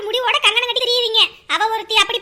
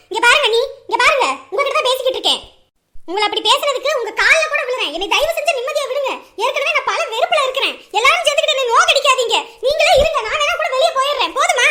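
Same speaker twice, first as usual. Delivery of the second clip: angry pleading; 4 dB louder than usual. Acted. Daughter-in-law pleads angrily.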